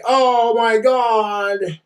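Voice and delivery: slow, drawn-out teary gasp; hammed-up sob of joy; mock crying. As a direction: imitate her crying over the ring. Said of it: "she was all crying and like".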